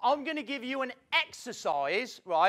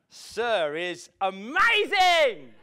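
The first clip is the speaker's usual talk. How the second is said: very slow, drawn-out words like a kung fu film; mock slow-motion reply; 5 dB louder, much slower than usual. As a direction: stretch every syllable in slow motion. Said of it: "Kung Fu when he used to go slow motion".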